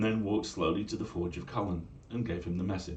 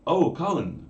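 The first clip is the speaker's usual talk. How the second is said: loud, higher hailing cry; eager call; 7 semitones higher, 9 dB louder than usual. Acted. Young man hails the smith, loud and eager. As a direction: call out to get his attention.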